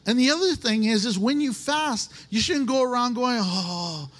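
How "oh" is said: low, drawn-out moan of hunger; moaning complaint. Acted. Faster moaning to everyone around, self-pitying complaint. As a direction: groan it out like a suffering faster.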